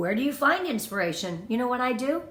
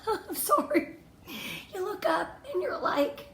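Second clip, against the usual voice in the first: emotional laugh; 8 semitones higher, 4 dB quieter than usual. Real, not acted. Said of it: "I'm gonna get emotional".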